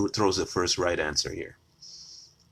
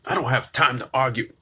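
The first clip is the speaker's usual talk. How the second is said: mocking quote; 7 semitones higher, 5 dB louder than usual. Mocking the dismissive critic.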